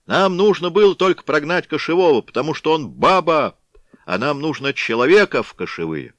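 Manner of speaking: loud, high scornful shout; mocking crowd yell. A narrator's reading. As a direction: yell it over the noise.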